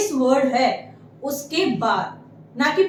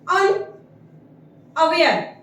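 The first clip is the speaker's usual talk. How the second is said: very slow, drawn-out syllables; slow model word; much slower than usual. Shown as a demonstration. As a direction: spell it out syllable by syllable. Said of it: "teacher pronounces word slowly".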